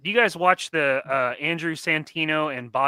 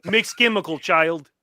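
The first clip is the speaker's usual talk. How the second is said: put-on heavy Russian accent menace; 4 dB louder than usual. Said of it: "in Russia".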